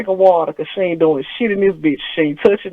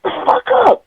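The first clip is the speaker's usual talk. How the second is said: high mock scold; 13 semitones higher than usual. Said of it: "I said".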